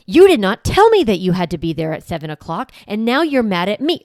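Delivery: mock defensive comeback; defensive parent. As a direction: snap back defensively, hammed-up. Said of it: "we get defensive".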